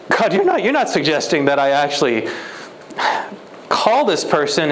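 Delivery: incredulous. Retold or imitated. Preacher reluctantly questions God about phoning her. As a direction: dread the answer as you ask.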